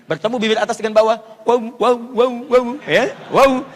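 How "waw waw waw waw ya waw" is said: "waw" with lips rounded apart, loud; loud demo of "waw"; letter waw. Shown as a demonstration. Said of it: "Agak terpisah".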